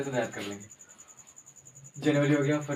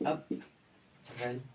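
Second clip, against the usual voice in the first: slow pronunciation; 8 dB quieter, much slower than usual. Shown as a demonstration. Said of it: "सीधा सीधा".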